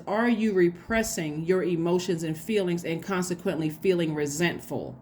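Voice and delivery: measured, slowing down on "feeling resentful". Real, not acted. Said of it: "in case I said it too fast".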